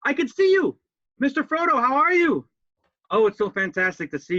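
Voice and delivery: loud, gravelly calling out; rough gravelly voice, loud. Acted. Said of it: "Sorry if I sound a little gravelly".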